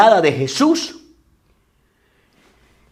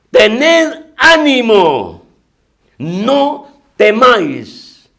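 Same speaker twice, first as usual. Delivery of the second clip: very slow, higher and drawn out; Jesus comforting; 6 semitones higher, 3 dB louder, much slower than usual. Acted. Jesus to the frightened disciples, very slow comfort. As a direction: stretch every word like a blessing.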